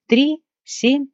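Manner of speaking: high, eager rapid guesses; pressing with curiosity; eager questions. Acted. (нетерпеливо, с любопытством)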